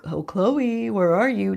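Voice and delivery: mock creeper calling out; lightly put-on stalker call. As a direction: sing it out like a lurking creep. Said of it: "Just like a creeper".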